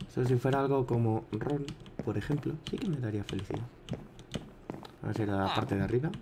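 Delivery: talking around a cigar in mouth; words muffled by a cigar in mouth. Real, not acted. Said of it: "Tengo el cigarro en la boca, por eso estoy hablando así".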